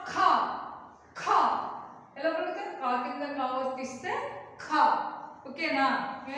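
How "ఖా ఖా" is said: ఖా as one syllable, held vowel; pronunciation demo. Shown as a demonstration. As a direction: show learners how ఖా is said. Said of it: "దీన్ని ఎలా పలుకుతాం?". ("ఖా" ఒకే అక్షరంగా పలకడం)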